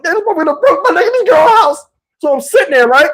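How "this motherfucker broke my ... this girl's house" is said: mock panic. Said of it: "I'm like".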